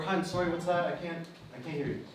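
mild, considerate demo; patient. Shown as a demonstration. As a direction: ask kindly, dropping the voice at the end.

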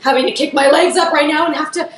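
mock-exasperated inner grumble; exhausted complaint. Dancer dreading the kick every time, mock exhausted complaint. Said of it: "so exhausted by that point".

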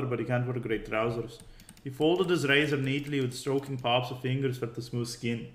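mild attempt at an Irish accent. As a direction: read it in a rough Irish accent. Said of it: "my Irish accent is terrible".

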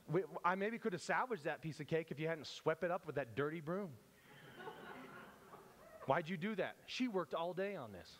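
mock indignant scolding; scold, playing mildly offended; pretend offended. Bystander offended at the server sweeping up cake, mock indignant. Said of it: "pretend like we want to be offended".

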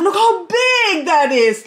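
high, loud amazement; thrilled. Real, not acted. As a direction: gush over the plant's size. Excited plant reveal.

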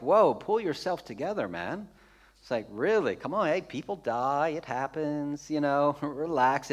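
lightly acted onlooker telling someone to chill; mock dismissive. Reserved Westerner reacting to weeping Jesus, mildly dismissive.

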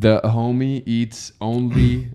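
slow, put-on street accent; ghetto-style accent. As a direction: lightly imitate slangy street speech, slowly. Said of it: "I sound so ghetto right now".

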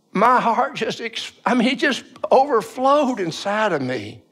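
slow down as the feeling wells up; overcome with emotion. Real, not acted. Son telling how his dad got right with God, deeply moved.

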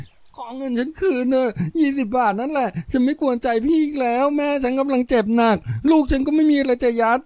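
high, weepy pleading; tearful begging. Acted. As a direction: beg through tears for mercy. Woman begs in tears. (อ้อนวอนเสียงสูงปนสะอื้น)

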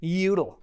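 "Util" said as "YOO-dul"; own pronunciation. Real, not acted. Coder shows how he says it, "Util" as "YOO-dul". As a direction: stress the "yoo" in "Util", soften the t to d. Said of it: "That's how I say it".

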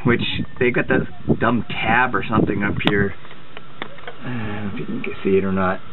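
talking while lying on back under car; strained reach, lying under the car. Real, not acted. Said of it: "Okay, I'm under the car".

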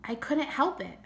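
put-on high-pitched child's whine; little boy whining in self-defence. A narrator's reading. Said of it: "kind of whining".

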